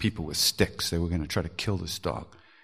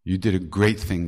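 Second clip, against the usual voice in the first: warm praise; 5 dB louder than usual. Retold or imitated. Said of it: "Maharaji said".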